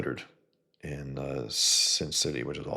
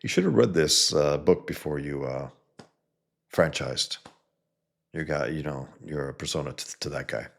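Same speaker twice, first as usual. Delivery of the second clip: mocking. Alfred mocks Batman over franchising, lightly mocking. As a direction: sneer it lightly at Bruce. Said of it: "he was mocking him".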